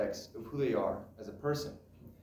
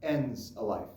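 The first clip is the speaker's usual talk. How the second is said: measured monologue with long, weighty pauses; dramatic monologue. Acted. Son recalling his mother and father, reflective monologue. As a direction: let each phrase settle before the next.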